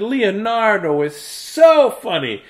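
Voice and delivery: put-on high, slow childish sing-song; giggly kids. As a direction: chant it like delighted classmates. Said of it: "They said".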